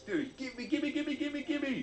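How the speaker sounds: high, whiny begging for it; grabby gimme, gimme like a kid; eager begging. Acted. Neckbeard begging for Belle Delphine, high and whiny.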